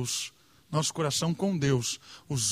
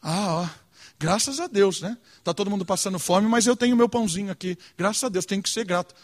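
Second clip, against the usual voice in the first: lightly voiced smug thankfulness, a bit quick; a hint of self-satisfied piety; mock grateful egoist. Preacher imitates a selfishly grateful believer, mildly smug. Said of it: "Que egoísmo isso?".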